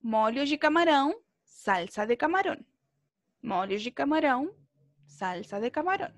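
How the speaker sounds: lilting "Molho de camarão, salsa de camarón" in matched phrases; sing-song tune. Shown as a demonstration. Teacher drilling students on a translation, sing-song. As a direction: chant "camarão" and "camarón" like a little tune, pausing between phrases. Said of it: "Es como una musiquita".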